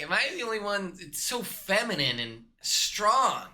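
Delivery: mocking awkward guy. Shown as a demonstration. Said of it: "don't be like".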